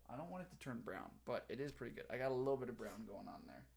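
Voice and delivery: talking while chewing apple; mouth full. Real, not acted. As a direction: speak through a mouthful. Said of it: "time for another bite of apple".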